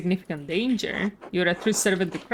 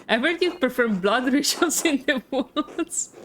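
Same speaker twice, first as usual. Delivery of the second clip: laughing; 5 semitones higher than usual. Real, not acted. Rereads the question, amused.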